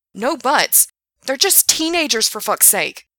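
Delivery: high, loud appalled outburst; shocked and outraged. Acted. Gerard appalled at selling to teens, outraged shout.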